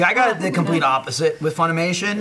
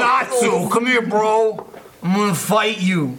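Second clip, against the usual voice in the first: higher, lightly hammed New Jersey tough guy; New Jersey accent; 7 semitones higher, slower than usual. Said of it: "starts having a New Jersey accent again".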